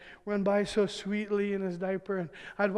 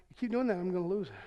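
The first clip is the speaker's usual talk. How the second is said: fast, soft, clipped-off threat; quick quiet warning; 3 semitones lower, 6 dB quieter, faster than usual. Retold or imitated. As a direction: rush the warning under your breath. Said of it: "She'll be like".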